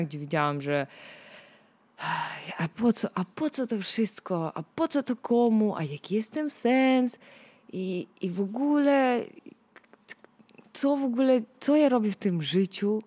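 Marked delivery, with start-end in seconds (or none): 2.6-13.0 higher, weary what's-the-point sighs; pessimistic whining. Retold or imitated. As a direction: act out gloomy despair, pitched up. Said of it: "byłam pesymistycznie nastawiona".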